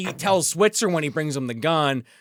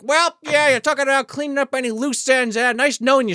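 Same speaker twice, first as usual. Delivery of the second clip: mock movie villain; 8 semitones higher than usual. Voices villain about to kill Smith.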